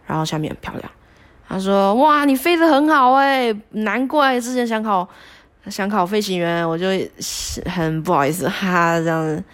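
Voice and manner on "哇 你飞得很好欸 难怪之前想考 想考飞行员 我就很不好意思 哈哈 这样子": impressed coach praise. Retold or imitated. 转述教练夸奖她.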